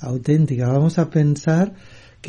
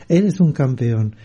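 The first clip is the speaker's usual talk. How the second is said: slow echo in a more level pitch; returning echo; slower than usual. Retold or imitated. Mountain answers the father, slow restrained echo. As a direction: repeat it slowly as an understated echo. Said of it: "y volvió el eco".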